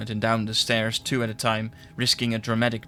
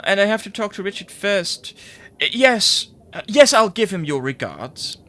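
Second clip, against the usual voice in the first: high, loud, flustered phone voice; editor on the phone; 8 semitones higher, 6 dB louder than usual. Acted. Editor rushing his wife off the phone, high and flustered. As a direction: hurry your wife off the line.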